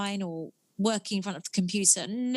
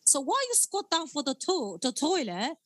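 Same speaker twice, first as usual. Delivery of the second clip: lightly voiced character, higher and upbeat; in character; 5 semitones higher than usual. Answering the podcast host, she pitches her sexy toilet workout, higher and upbeat. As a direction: sell the workout like a cheeky fitness tip.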